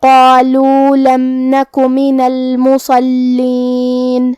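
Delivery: slow chant with a heavy S and held double L in المصلین; heavy saad, doubled laam. Shown as a demonstration. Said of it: "صاد کو بھاری آواز میں پڑھنا ہے". (المصلین میں صاد بھاری، لام مشدد)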